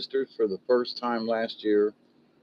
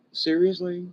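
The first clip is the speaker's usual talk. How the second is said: laughing disbelief; 4 semitones higher than usual. Real, not acted.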